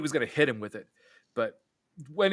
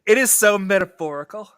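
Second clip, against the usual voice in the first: pretentious Ki Woo; 5 semitones higher, 5 dB louder than usual. Retold or imitated. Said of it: "as Key would say".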